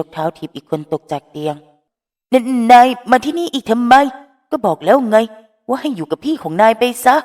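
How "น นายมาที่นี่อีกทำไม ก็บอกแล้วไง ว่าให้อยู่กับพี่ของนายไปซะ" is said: high, loud, startled yell; startled angry shout. Acted. Phrom kicks Finneas off the bed, startled shout. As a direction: snap at him in shock. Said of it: "ส่วนพร้อมนั้นตกใจ".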